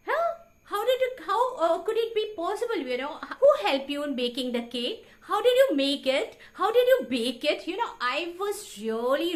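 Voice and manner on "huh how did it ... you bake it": higher, louder disbelieving questions; incredulous questioning. Retold or imitated. Husband doubting his wife's baking, incredulous and louder.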